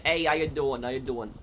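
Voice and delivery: light New York accent greeting; a hint of New York City accent. Shown as a demonstration. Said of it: "can you do the New York City accent?".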